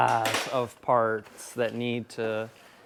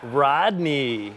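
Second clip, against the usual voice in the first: announcer voice. Pretend. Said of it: "you're a good, you're a good announcer".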